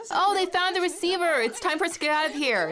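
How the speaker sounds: high-pitched, excited retold exclamation; retold excited cry. Cadet retelling the moment the receiver was found, excitedly. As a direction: re-enact the alarm, pitched well up.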